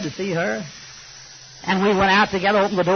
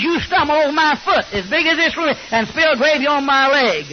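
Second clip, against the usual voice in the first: loud, high furious yelling at his wife; screaming at his wife over spilled gravy, furious; angry screaming; 5 semitones higher than usual. Retold or imitated. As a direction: rage at her like an old grouch. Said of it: "he goes to screaming as loud as he can scream".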